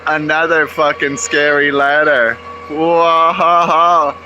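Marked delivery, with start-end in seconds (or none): 2.7-4.2 loud, high drawn-out whoa; impressed whoa. Real, not acted. Watching the worker climb high, a loud whoa. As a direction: gasp out a wowed whoa.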